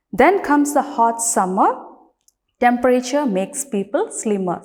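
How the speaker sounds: deliberate recital, each phrase set apart; poem recitation. Shown as a demonstration. Teacher starts reciting the poem for children, poem recitation. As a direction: recite the verse clearly for a class. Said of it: "let's start reciting the poem".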